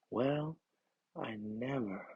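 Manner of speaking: prim, huffy and quietly affronted; offended sniff. Acted. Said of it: "she sniffed".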